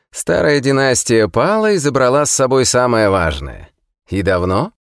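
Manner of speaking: high, cackling mocking prisoner; cackling hell torturer. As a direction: laugh it out with scorn. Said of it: "вздрогнул и расхохотался". (хохочущий насмешливый узник)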